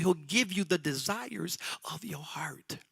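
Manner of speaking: hushed whisper of the verse; whispered Bible quote; whispered scripture. Acted. Quoting scripture in a hush.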